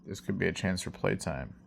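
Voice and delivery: soft, hushed, lightly menacing aside; a muted hint of a gleeful dark side; his dark side whispering about playtime, hushed; sinister dark side. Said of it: "my dark side of my personality is like".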